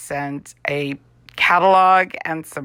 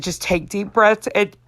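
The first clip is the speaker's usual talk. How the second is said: reassuring doctor; 7 semitones higher than usual. Retold or imitated. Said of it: "And he said".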